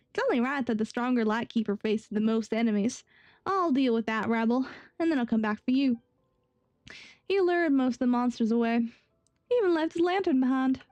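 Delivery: light Southern-sounding Texan character voice; attempted Texan. Young guard recalling his master facing the enemies, rough Texan accent. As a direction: keep a loose Texan twang as he recounts.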